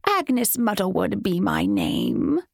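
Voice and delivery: slow, sugary crone voice; sweetly mocking hag; mockingly sweet. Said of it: "in a mockingly sweet tone".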